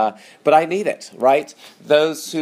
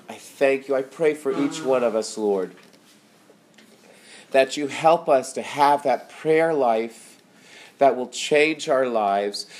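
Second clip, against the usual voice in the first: prayer. Acted. Pastor closing the sermon in prayer, earnest spoken prayer. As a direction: pray it over the listeners.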